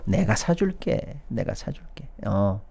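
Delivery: soft, drawn-out reassurance, fading away; mock coddling. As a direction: play the indulgent benefactor, hushed and slow. Mimics government coddling struggling builders.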